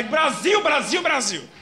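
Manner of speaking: high, loud repeated shout; shouting like a goal call. Retold or imitated. Medium in trance yelling the name like a goal call. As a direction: yell it like a goal announcer. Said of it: "parece o Galvão Bueno gritando gol".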